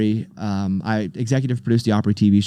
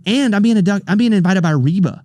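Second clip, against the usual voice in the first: excited disbelief; 7 semitones higher, 4 dB louder than usual. Retold or imitated. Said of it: "and I'm like".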